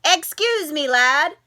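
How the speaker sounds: lightly voiced little leprechaun, a touch of Irish; a small polite leprechaun, gently done; tiny leprechaun voice. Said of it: "said a tiny voice".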